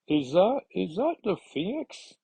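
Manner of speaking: high, rising startled question; hammed-up surprise climbing at the end; acted astonishment. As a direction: ask it in mock disbelief, pitched high.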